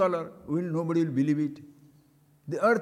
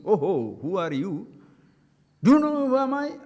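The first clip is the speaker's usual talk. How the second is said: mock pompous ego; 4 dB louder than usual. Swami mocking a proud man, pompous boast. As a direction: puff up like a self-important man.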